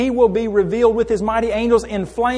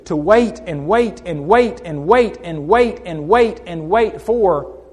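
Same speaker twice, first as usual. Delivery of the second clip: drawn-out repetition; 3 semitones lower, slower than usual. Acted. Preacher drags out endless waiting.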